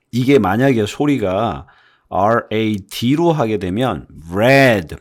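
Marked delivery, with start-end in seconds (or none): 4.3-5.0 red slow with a dropped vowel; lowered vowel. Shown as a demonstration. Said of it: "목소리 톤이 아래로 내려가요". (아래로 내린 red)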